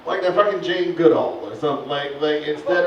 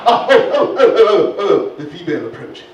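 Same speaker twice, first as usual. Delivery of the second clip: excited narrator; 7 dB louder than usual. Acted. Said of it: "Sir Reginald Hollow".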